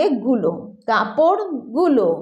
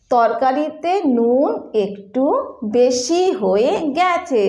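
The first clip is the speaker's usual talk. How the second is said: slow, gentle, hesitant complaint; polite hesitant; slower than usual. Shown as a demonstration. Not hurting the cook who worked hard, gently. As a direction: soften it so nobody is hurt. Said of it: "ऐसे बोलिए जिस सामने वाले को भी खराब ना लगे".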